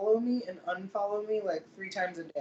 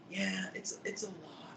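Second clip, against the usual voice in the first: subdued retelling; 9 dB quieter than usual. Retold or imitated. Retelling a lifter's reply about his energy, subdued. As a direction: imitate a reply, barely voiced.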